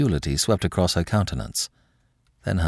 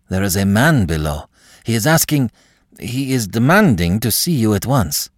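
breathless fright; 5 semitones higher, 4 dB louder than usual. Acted. Footman panting, urgent report.

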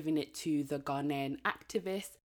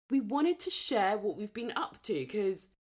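nasal voice; 5 semitones higher than usual. Real, not acted. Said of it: "I sound super nasally".

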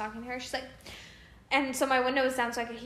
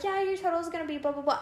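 fast recital; 4 semitones higher, much faster than usual. Retold or imitated. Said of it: "then just changed to a normal voice".

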